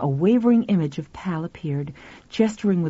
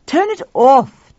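loud, raised, drawn-out order; slow, forceful command; firm demand; 7 semitones higher, 7 dB louder, slower than usual. A narrator's reading. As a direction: order it sharply, leaning on each word. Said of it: "Tuffy demanded".

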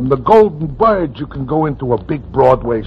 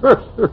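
short scoffing laugh; 9 semitones higher than usual. Acted. Producer laughs at her claim.

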